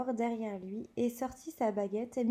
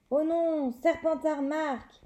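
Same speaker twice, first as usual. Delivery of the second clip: dismayed commentator; 5 semitones higher, 4 dB louder than usual. Acted. Commentator reacts to goal.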